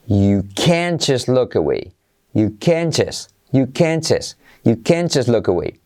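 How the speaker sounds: "can't just" with both final Ts dropped; native pronunciation. Shown as a demonstration. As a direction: model "can't just look away" for repeating, stress on "can't". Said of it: "cómo la pronunciaría un nativo". ("can't" acentuado, sin T, como un nativo)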